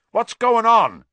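high, loud shout across a room; alarmed call. Acted. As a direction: call out in alarm, startled awake. Roommate calls out in the dark.

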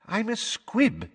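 high, slow quavery admission; Missus Figg. Acted. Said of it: "in her quavery voice".

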